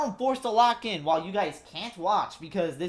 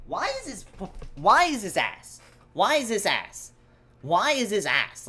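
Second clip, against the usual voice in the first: loud, repeated angry question; fed up, hammering the same complaint; real frustration; exasperated; 4 dB louder than usual. Real, not acted. Cable failing again.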